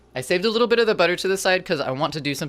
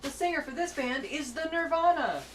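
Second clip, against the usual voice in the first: goofy mock-dumb voice; 12 semitones higher, 4 dB quieter than usual. Repeating the band-name joke.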